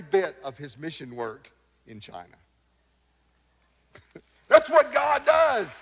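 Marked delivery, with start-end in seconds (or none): 4.5-5.7 slow and loud, rising up in joy; triumphant exclamation. Real, not acted. Preacher exclaiming to the congregation, slow and triumphant. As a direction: hammer home the wonder.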